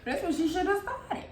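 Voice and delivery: high, laughing the line out. Real, not acted. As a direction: say it through a laugh.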